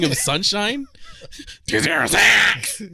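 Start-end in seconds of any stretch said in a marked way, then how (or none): 1.7-2.8 slow, stiff tough-guy count-off; a hint of a fake drill sergeant; imitating recruit. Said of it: "it was the weirdest".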